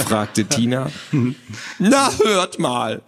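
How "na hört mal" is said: high, drawn-out squawky voice; squawky indignation. Acted. Creature in the box scolds the children, squawky and indignant. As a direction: squawk it out, offended. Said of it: "mokierte sich plötzlich eine quäkende Stimme".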